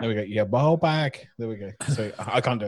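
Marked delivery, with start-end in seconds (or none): 0.2-1.3 slow, drawn-out second go at a Scottish accent. Shown as a demonstration. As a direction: stretch "ball bag" out slowly in a Scottish accent. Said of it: "Scottish accent".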